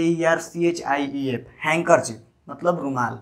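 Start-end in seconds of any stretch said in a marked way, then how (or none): 1.6-2.2 हैंकरचीफ said with no D between n and k; silent D. Shown as a demonstration. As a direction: glide from "hang" straight into "kerchief" in हैंकरचीफ. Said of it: "इसका उच्चारण हैंकरचीफ होता है".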